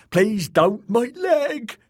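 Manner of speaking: high, pained begging; loud, high frightened wail; whimpering. A narrator's reading. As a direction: plead for the shattered leg. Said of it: "Dick whimpered".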